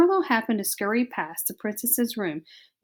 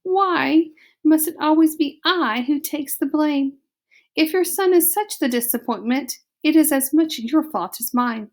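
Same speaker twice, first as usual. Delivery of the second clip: high, louder French wail; dramatic French mother; 6 semitones higher, 4 dB louder than usual. Acted. Antoinette blamed by her husband, high French lament. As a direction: cry it out in French like a diva. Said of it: "said Antoinette".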